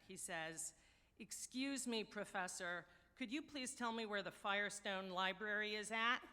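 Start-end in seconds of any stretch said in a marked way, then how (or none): 1.2-6.2 lightly imitated New York borough accent. Newcomer stopping a snooty professor for directions, New York borough accent. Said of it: "in a heavy New York borough accent".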